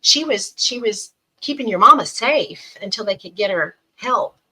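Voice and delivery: a hint of a mother calming a frightened child; gentle reassurance. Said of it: "mom's like".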